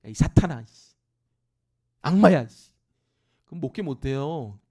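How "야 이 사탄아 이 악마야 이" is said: loud, jeering mock insult. Pastor imagined scolding a church member, loud mock insult. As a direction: hurl it at him as a joke. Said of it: "목사가 교인한테".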